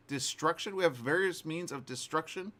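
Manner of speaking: high, disbelieving echo of a quote; incredulous repeat. Retold or imitated. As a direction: repeat it back in mock astonishment. Scoffing repeat of the quote just read.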